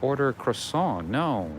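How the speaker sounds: retelling his own muttered protest; quiet disbelief. Retold or imitated. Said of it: "I'm like".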